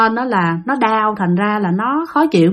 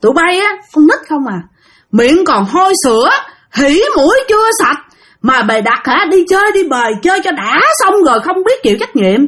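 higher, contemptuous tirade; possessed scolding the group; 5 semitones higher than usual. Retold or imitated. Possessed man scolding the young group, higher angry tirade. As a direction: scold the kids like an angry elder. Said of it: "Tự nhiên chửi vậy".

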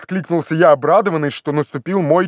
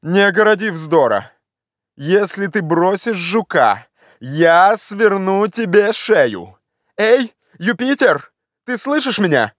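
raised, drawn-out warning; cross master, rising higher and slower; scolding threat; 5 semitones higher than usual. Acted. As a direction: threaten the climber, then call up sharply.

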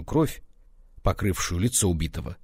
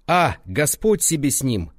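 plaintive; 6 semitones higher, 4 dB louder than usual. A narrator's reading. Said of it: "жалобно возразили".

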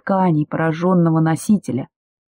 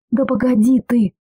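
sharp outcry; 7 semitones higher than usual. Acted. Woman cries out at Demyan to wait, sharp outcry. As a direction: cut him off with a sharp cry. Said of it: "вскрикнула я на него".

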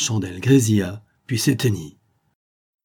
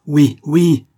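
sharp high shout of assent; shouted together; 6 semitones higher, 9 dB louder than usual. Acted. Three officers shouting for Lance's death, loud cry. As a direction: yell yes, yes at him. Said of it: "crièrent trois bouches".

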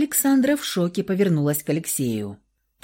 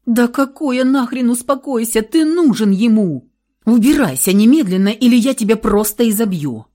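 loud, higher, raging threats; furious yelling; 4 semitones higher, 7 dB louder than usual. A narrator's reading. Sister screams at brother to go help. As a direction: yell him out the door.

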